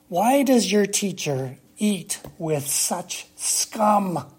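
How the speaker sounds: slow, sneering question; scornful Pharisees. Acted. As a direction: drag out the Pharisees' contempt. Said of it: "they asked his disciples".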